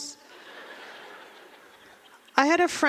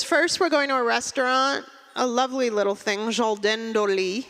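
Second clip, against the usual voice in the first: pretentious fake French. Friend invites stateside friends with fake French names. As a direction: drop French names to sound fancy. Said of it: "She goes".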